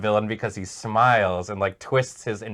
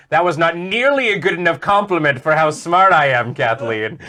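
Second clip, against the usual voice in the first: mock arrogant boast; 4 semitones higher, 5 dB louder than usual. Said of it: "Kathleen complimented Serge and went".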